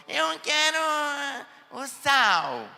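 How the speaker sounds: put-on a bossy little girl at the table; demanding little girl. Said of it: "então ela falou".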